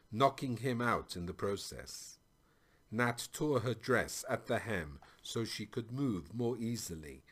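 measured audiobook-style storytelling; story narration. A narrator's reading. Narrator reads a tale of Nat and the king, storytelling.

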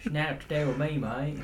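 put-on southern accent. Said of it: "was that your southern accent?".

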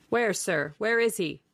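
a hint of a keeper's shout. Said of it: "he shouted".

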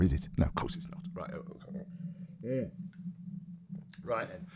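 ordinary delivery, nothing marked

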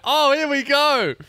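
sarcastic resignation at the raid; resigned. Retold or imitated. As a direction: drag it out like here we go again. Resigned reaction quoted.

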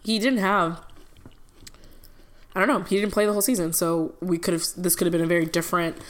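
eating while talking; crunching cookies. Real, not acted. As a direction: talk through crunching Oreos. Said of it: "Please don't mind the crunching".

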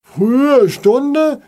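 high, loud outraged cry; indignant shout. A narrator's reading. Neighbour shouting back at the father, indignant. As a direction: fling the words back in outrage. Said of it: "schrie Frau Frischauf empört".

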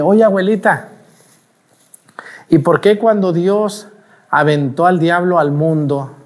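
a hint of a small boy questioning grandma; lightly voiced child. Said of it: "yo le hice una pregunta a mi abuelita".

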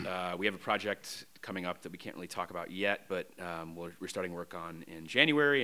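running short of breath. Real, not acted. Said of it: "I'm running out of breath".

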